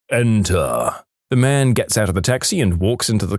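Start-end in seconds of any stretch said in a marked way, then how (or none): 0.1-1.0 lightly voiced command from above; mock boom at ordinary volume. Voice from above at the casino, mildly booming. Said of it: "the booming voice yells".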